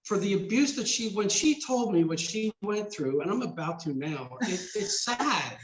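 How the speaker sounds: real choked-up voice, high and strained with feeling. Real, not acted. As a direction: fight back tears while insisting on it. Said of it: "I get choked up".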